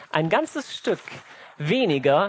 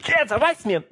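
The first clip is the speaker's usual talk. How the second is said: higher-pitched outburst, mildly acted; mock yelling; 5 semitones higher than usual. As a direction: play a parent snapping. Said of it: "fange ich einfach an rumzubrüllen". (gespieltes Rumbrüllen)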